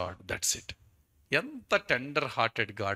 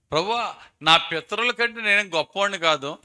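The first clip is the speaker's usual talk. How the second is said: pleading Elijah; 7 semitones higher, 8 dB louder than usual. Acted. Quoting Elijah's prayer again.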